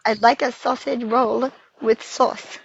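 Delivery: slow imitation of an Australian accent; attempted Australian accent. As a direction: carefully copy an Australian accent. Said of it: "we gotta repeat after you".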